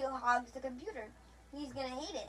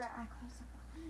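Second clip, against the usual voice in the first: hushed mock whisper, much softer; imitated whisper; 11 dB quieter than usual. Retelling how a player sneakily claims supply, mock whisper. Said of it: "and then you just whisper".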